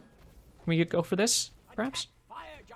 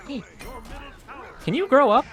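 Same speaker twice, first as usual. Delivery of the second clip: high, loud taunting yell; shouted taunt at the enemy player; mock trash talk; 9 semitones higher, 5 dB louder than usual. Real, not acted. Trash-talking enemy after kill.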